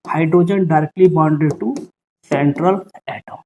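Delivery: each word spaced out and dictated slowly; slow memory line. Shown as a demonstration. Teacher dictates the rule slowly to his students. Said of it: "इसके लिए कि याद रखिएगा".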